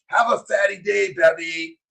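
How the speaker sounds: a shout-out by name; cheerful shout-out; calling out. Real, not acted. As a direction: call her name across the room. Calling out to a viewer.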